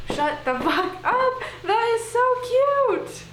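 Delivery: high, loud, delighted squeal, drawn out on the cute; excited squeal. Real, not acted. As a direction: squeal with delight over the sweet book quote. Reacting to romantic quote.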